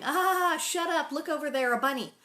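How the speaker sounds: put-on loud, hurried brush-off of a child; mock dad distracting his daughter; dismissive Pa. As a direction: shove the kid's question aside. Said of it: "and he's going".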